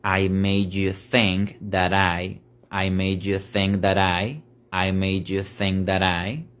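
"I made you think that I" with the T of "that" tapped into "I"; slow linked phrase. Shown as a demonstration. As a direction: flow it as one phrase. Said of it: "Entonces quedaría".

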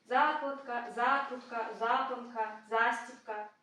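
ЗА stressed in Закладка, закрутка, запанка, застібка; stress on the prefix. Shown as a demonstration. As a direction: list Закладка, закрутка, запанка, застібка, each hit on first ЗА. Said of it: "є префікси, які ми наголошуємо". (наголос на префіксі «за»: Закладка, закрутка, запанка, застібка)

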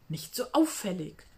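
a hint of a hissed rebuke; hissed warning. A narrator's reading. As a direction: warn her friend sharply under your breath. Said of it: "zischte Ida".

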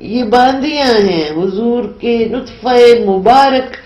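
measured, solemn Urdu recitation; poem recital. Acted. Poet reciting her nazm to the interviewer, solemn recital. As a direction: recite each line like a verse being read aloud. Poem resumes after aside.

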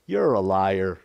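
low-pitched, gentle telling-off; understated, affectionate bluntness; loving rebuke. Acted. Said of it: "With all the love in his heart".

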